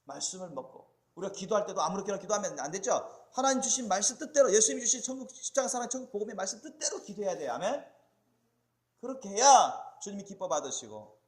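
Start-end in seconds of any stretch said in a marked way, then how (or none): 1.1-11.2 emphatic preacher, loud on the key phrases; forceful preaching. Real, not acted. Preacher teaching the congregation how to pray, forceful preaching. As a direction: drive each phrase home to the congregation.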